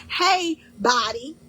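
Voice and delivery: loud cheerful call. Pretend. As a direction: hail your body like an old friend across the room. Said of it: "You're saying".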